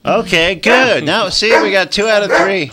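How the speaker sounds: high, loud pleased praise; excited. Real, not acted. Host praising the dog that barked on command, excited. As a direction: reward the dog's bark with delight.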